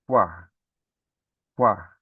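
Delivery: quá with a faint u glide and a full, strong a; teacher repeating quá so pupils hear the a; syllable demo. Shown as a demonstration. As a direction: sound out quá, the a clearly stronger. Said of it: "o som mais forte é do a".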